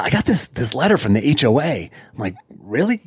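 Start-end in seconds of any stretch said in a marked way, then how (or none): 0.0-1.9 mildly agitated retelling, pitched up; worked-up neighbor. Retold or imitated. Neighbor showing the prankster his letter, worked up. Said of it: "all worked up". 2.6-3.0 high-pitched mock surprise; playing dumb. Prankster to his worried neighbor, playing dumb. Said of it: "just playing dumb".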